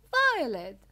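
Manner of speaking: very loud, high outcry; explosive cry, falling in pitch; scream. A narrator's reading. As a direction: scream the name in alarm. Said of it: "screamed Missus Beauregard".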